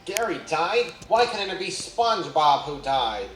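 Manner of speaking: loud, high sneering yell; cruel yell. A narrator's reading. Squidward yelling back cruelly at Patrick, angry shout. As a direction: shout it back in mean contempt. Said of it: "yelling at him".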